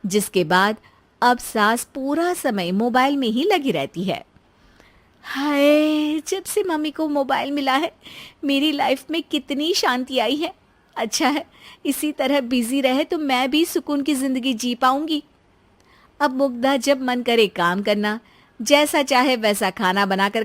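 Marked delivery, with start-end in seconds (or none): 5.2-15.2 lightly voiced wife, sighing with relief; relieved daughter-in-law. Daughter-in-law enjoying peace now mother-in-law is busy, relieved.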